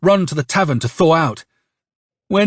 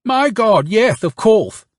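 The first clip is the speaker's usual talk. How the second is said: ingratiating; 7 semitones higher, slower than usual. A narrator's reading. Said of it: "he says ingratiatingly".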